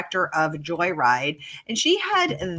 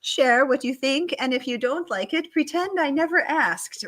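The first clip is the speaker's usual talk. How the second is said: mock timid plea; 7 semitones higher than usual. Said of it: "to say, you know".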